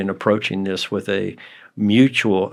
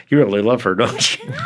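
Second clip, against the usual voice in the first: mock-amazed question ending far up; teasing disbelief. Shown as a demonstration. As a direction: needle him, you can't be serious. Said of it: "What I was saying was".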